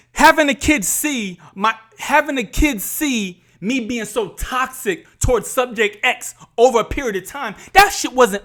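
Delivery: real emotion building in the voice; worked up, pushing the point; getting emotional. Real, not acted. Podcaster recalling toxic years in front of the kids, emotional. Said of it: "I'm getting emotional".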